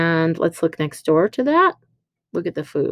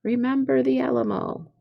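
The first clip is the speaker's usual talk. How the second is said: "Remember the Alamo" lifted high like a rallying call; mock battle cry; 7 semitones higher than usual. Shown as a demonstration. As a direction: sing out "Remember the Alamo" much higher as a war cry. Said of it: "maybe I should do this 'cause it's a battle cry".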